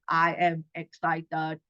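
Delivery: low, slow, flat-toned monotone; deadpan robotic delivery. Shown as a demonstration. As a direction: say it like a robot reading. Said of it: "That's a bit robotic".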